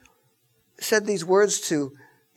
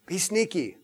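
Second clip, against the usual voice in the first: mock sneaky hush; 7 dB quieter than usual. Mock whisper about sneaking in.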